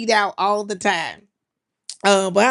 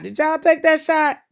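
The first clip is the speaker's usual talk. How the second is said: high incredulous question; 9 semitones higher, 7 dB louder than usual. Real, not acted. Asking viewers about the shot.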